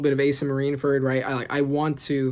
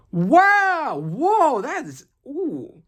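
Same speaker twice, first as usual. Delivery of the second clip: much higher, louder wow fading to a slow ooh; amazed gasp; 11 semitones higher, 4 dB louder, much slower than usual. Real, not acted. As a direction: react to a shocking twist. Shocked by the reveal.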